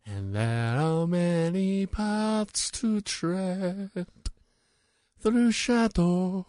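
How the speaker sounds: slow, high Scottish singing; Scottish accent. Retold or imitated. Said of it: "really thick Scottish accent".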